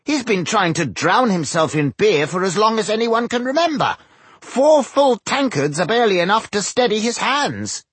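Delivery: high-pitched, scandalized dwarf; aghast protest. A narrator's reading. Dwarf warns Tungdil about the drinker, high and scandalized.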